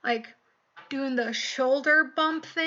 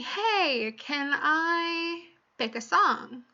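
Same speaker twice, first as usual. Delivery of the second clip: imitating a bratty kid; 5 semitones higher, much slower than usual. Ten-year-old girl asking for song.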